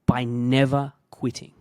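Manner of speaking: determined vow. Retold or imitated. Vowing to prove the hater wrong, loud and determined. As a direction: swear to prove them wrong. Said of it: "And I was just like".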